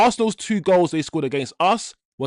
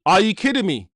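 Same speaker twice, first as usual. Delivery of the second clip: louder, higher disbelief at the goal; stunned outburst; 3 semitones higher, 4 dB louder than usual. Real, not acted. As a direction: blurt it out in shock. Repeats the reaction to the goal.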